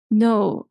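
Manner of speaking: "no" with a falling tune; falling intonation. Shown as a demonstration. Teacher showing learners intonation, "no" said with a fall. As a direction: let the pitch drop through "no". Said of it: "a falling, okay, okay, a falling intonation".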